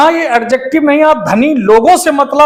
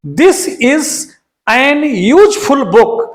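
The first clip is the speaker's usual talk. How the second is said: very slow reading; slow, deliberate reading; slow dictation; much slower than usual. Shown as a demonstration. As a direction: dictate the wrong sentence. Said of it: "यहां same mistake है".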